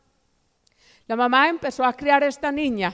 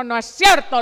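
loud, abrupt retort, retold; angry denial; 5 dB louder than usual. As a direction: cut the girl off as the disbelieving mother. Mother denies girl's accusation. (negación tajante y fuerte, imitada)

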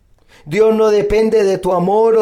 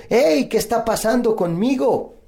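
higher-pitched cry of protest to God; mild mock shout; 6 semitones higher than usual. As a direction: call out in complaint without real volume. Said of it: "le grito y le digo".

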